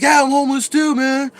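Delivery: high, loud mock yell; retold yell. Retelling what the neighbor yelled back. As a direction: throw the line back like the neighbor did. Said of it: "one of the things he yelled back at me".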